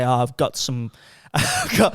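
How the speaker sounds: put-on faltering Welsh accent, breaking into a laugh; attempted Welsh accent. Man quoting a Welsh fitness guy, attempted Welsh accent. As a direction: try a Welsh accent and crack up. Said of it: "the particular accent he's got".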